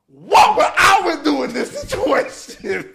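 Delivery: high, loud, slow preachy voice; mock angel voice. Good conscience asking what to do, high slow preachy voice. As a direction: sing it out like a churchy conscience.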